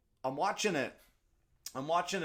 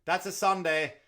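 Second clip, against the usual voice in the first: instant flat answer; 8 semitones higher, 10 dB louder than usual. Retold or imitated. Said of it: "he just goes".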